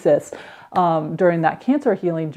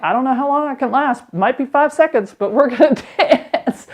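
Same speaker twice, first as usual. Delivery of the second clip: excited rallying; 6 semitones higher than usual. Retold or imitated. Mom rallies family to dance.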